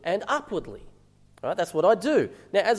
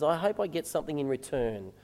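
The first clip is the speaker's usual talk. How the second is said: lower, softer, as a private thought; little inner voice; 4 semitones lower, 7 dB quieter than usual. Acted. Husband's secret thought while giving his wife a back rub, quiet inner voice. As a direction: voice a small selfish thought under your breath. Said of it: "this little voice in the back of my head".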